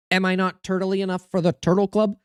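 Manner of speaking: proper go at the movie turtle voice; Turtle Club impression. After clearing his throat, streamer redoes the turtle quote in character.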